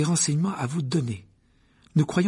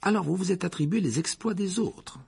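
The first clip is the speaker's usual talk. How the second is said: stunned; 7 semitones higher than usual. A narrator's reading. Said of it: "dit Harry stupéfait".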